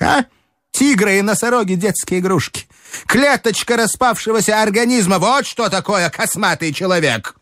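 high, feverish prophet of doom; frenzied Strukov. Acted. Strukov lectures Telegin on the coming chaos, feverish and high. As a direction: rave about chaos with wild excitement.

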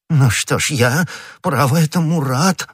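high-pitched, fussy relief; eager exclamation. A narrator's reading. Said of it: "воскликнул господин Бонасье".

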